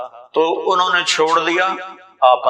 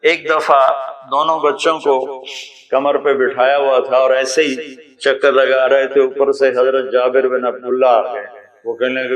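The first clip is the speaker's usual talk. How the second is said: usual speaking voice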